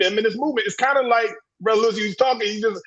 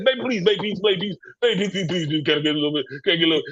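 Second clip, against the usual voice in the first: imitating a man begging his woman, low and laughing; hammed-up begging voice; mock begging whine; 3 semitones lower, much faster than usual. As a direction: plead like a pathetic simp, half laughing. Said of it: "Brothers be begging for sex".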